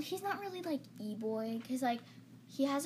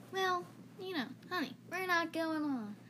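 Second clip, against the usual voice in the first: lightly put-on southern mom; higher voice with a hint of southern accent; 5 semitones higher than usual. Mom talking to her son in the car, mock southern accent. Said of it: "just gonna do with a southern accent".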